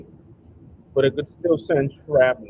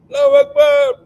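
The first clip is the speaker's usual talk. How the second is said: higher, louder mock yell; hammed-up shout; loud comic battle cry; 13 semitones higher, 11 dB louder than usual. Acting driver detonating bomb.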